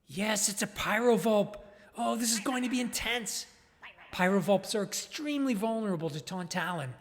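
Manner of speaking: excited. Acted. Commentator spots the rival.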